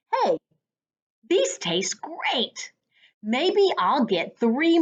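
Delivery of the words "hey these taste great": whispered, slow, to yourself; hushed delight. A narrator's reading. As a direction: let it slip out as a secret. Whispered aside while eating.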